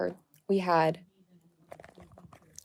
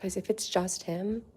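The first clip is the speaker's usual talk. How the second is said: soft whisper, much softer; 11 dB quieter than usual. Real, not acted. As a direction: whisper so the dogs don't hear. Whispering near the dogs.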